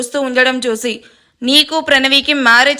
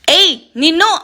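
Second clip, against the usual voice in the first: angry threat; 5 semitones higher than usual. Acted. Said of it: "కోపంగా వెళ్తున్న ఆయుష్కి".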